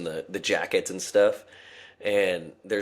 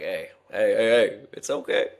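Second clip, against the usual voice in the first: mock reassurance; 4 dB louder than usual. Mocking managers' apology.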